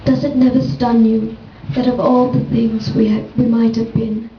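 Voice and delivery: measured, deliberate poetry recital; poem reading. Acted. Poet reading a prose poem about Karna to an audience, measured recital. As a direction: read it as verse, pausing between images.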